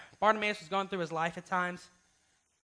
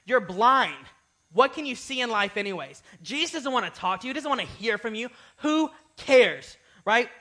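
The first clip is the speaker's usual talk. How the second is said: taunting crowd; 4 semitones higher, 6 dB louder, slower than usual. Retold or imitated. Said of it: "everyone in the town was like".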